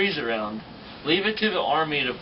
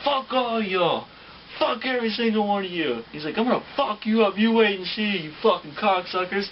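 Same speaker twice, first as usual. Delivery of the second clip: furious cursing; 9 semitones higher, 3 dB louder than usual. Retold or imitated. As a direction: rage at the whole squad. Sergeant curses out the recruits.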